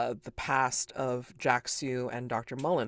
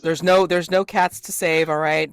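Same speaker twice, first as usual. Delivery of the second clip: firm declaration; 6 dB louder, faster than usual. Real, not acted. GM firmly declaring rule.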